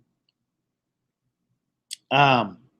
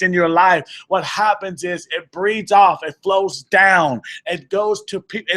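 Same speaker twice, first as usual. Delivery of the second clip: rally the brothers, getting more and more fired up; fired up preaching; 2 semitones higher than usual. Real, not acted. Preacher rousing the men in the room, fired up. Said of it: "I'm getting fired up here".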